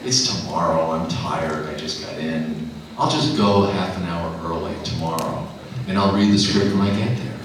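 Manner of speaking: low, weary thoughts; lazy, low self-talk; tired inner voice. Retold or imitated. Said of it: "and I thought".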